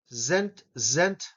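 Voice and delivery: "Zent" said alone with a voiced z; isolated syllable. Shown as a demonstration. Teacher isolating the second syllable for learners, sounded out. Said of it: "is what the second syllable sounds like".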